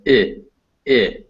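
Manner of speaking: "I" as the ih in bit; short I vowel. Shown as a demonstration. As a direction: clip out "I" as a short ih, not eye. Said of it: "often called the short I".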